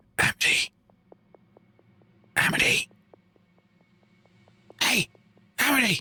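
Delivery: high, slow whisper. Standing outside a tent, calling to someone inside, whispering. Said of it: "I'm gonna whisper in like".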